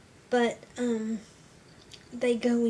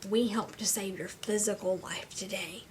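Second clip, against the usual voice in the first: spaced-out, deliberate phrasing; slow, measured quoted message. Retold or imitated. Volunteers telling a patient about the gift, slow and deliberate. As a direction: deliver the message slowly, pausing between phrases. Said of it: "to tell them".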